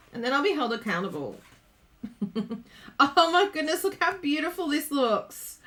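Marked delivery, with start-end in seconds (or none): 3.0-5.6 higher, excited marvelling; delighted admiration. Real, not acted. Crafter admiring how her card looks, delighted admiration.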